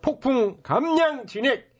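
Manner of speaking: brash hawker's sales pitch; snake oil seller. Acted. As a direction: talk up the miracle tonic.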